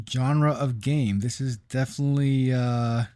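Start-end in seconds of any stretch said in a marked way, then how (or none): 1.2-3.0 talking through hiccups. Real, not acted. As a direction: hiccup between the words. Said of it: "have the hiccups".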